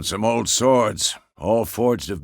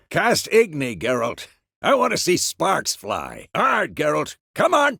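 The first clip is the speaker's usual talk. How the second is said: raised, urgent coaching; calling out commands; 6 semitones higher than usual. Acted. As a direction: urge on a sparring pupil from a distance. Calling spells during training drill.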